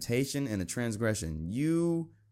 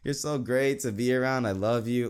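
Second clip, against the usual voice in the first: higher, sugary mock gush; fake-nice gushing; 4 semitones higher than usual. Mocking girls flattering friends they dislike, higher, syrupy. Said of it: "be like".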